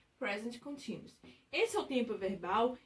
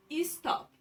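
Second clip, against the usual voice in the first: "Stop" with a raised, clearer TOP; stress on TOP in "stop"; 4 semitones higher than usual. Shown as a demonstration. Teacher showing the stressed syllable, TOP emphasised in "Stop". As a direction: let TOP ring out higher in "Stop". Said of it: "O top é o que a gente mais ouve".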